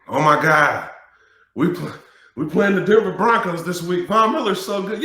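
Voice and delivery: high, loud mock whine about Von Miller; mocking whiny lineman. Mocking linemen who fear Von Miller, high mock whine. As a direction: ham up a scared lineman. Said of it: "hate hearing offensive linemen say that".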